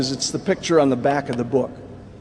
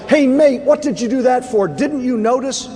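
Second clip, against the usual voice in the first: retold yell; 7 semitones higher than usual. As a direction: call it out like a reporter across a battlefield. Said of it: "the Reuters news crew off to the side yells".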